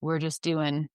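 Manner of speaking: curt, dismissive clinician; a hint of brusque dismissal; dismissive brush-off. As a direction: rattle it off and get out of the room. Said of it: "instead of".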